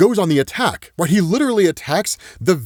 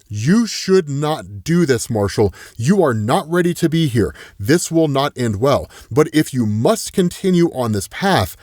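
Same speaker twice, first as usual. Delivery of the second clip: a hint of a grave, deliberate entity; solemn warning. Entity warns Marshall off his path, solemn warning.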